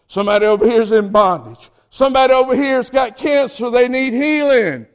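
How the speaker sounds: forceful preaching. Acted. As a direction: call out each need to the congregation.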